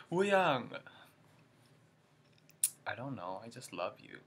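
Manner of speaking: hammed-up fangirl plea; mock flirty fan call; corny fan line. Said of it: "corny Wooyoung jokes".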